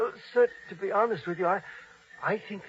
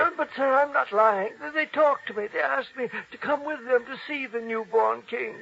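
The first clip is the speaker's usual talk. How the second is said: anxious protest; 5 semitones higher than usual. Acted. Old man insists, accused of lying.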